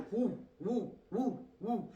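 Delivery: lightly voiced raver's whoop; mock Biden cheer. Mimicking Biden cheering at the speech. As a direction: whoop it softly like at a rave. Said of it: "Biden was like".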